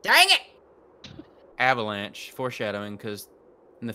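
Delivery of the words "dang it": sharp high cry of annoyance; frustrated outburst. Real, not acted. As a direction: blurt it out, annoyed. Skipped cutscene by accident.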